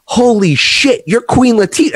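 high, loud, excited shout; starstruck shout. Retold or imitated. Recognizing a famous rapper on the street, high excited shout. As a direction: shout it out, thrilled to recognize her.

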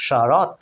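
শরৎ ending in a bare t, no o after it; silent final vowel. Shown as a demonstration. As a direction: cut শরৎ off on the t. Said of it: "অ স্বরধ্বনিটা উচ্চারণ হয় নাই".

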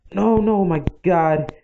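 gasping no, no, dragged out in alarm. Real, not acted. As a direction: panic as the village burns. Villagers' house catching fire.

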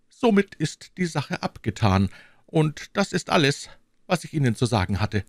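lightly voiced king, cool and final, rushing the end; a hint of cold cruelty; the king closes the matter coldly. A narrator's reading. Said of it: "kalte Grausamkeit".

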